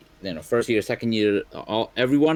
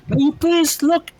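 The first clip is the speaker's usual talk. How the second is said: high slow booming announcer; fighting game announcer; 4 dB louder than usual. Acted. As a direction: announce it to the stadium. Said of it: "like, an announcer voice".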